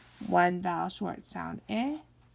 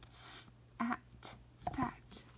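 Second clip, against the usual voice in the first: whisper; 4 semitones higher, 10 dB quieter than usual. Shown as a demonstration. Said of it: "say these words".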